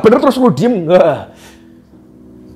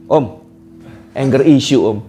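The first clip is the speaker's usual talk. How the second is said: imitating a child; 9 semitones lower than usual. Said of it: "lalu temennya anak, anak S D, anak kecil-kecil".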